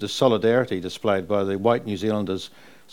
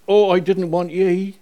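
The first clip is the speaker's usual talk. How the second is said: Mum's Irish voice; 8 semitones higher, 5 dB louder, slower than usual. Retold or imitated. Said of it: "and Mum said".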